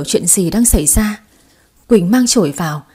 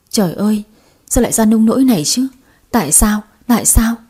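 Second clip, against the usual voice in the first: anguished crying. Acted. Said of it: "Thuận bật khóc".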